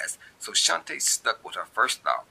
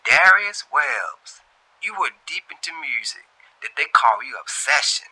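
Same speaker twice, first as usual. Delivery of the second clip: Shantae recognizing; 9 semitones higher, 6 dB louder than usual. A narrator's reading. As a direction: draw out his name, up high. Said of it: "Shantae began to say to the receiver".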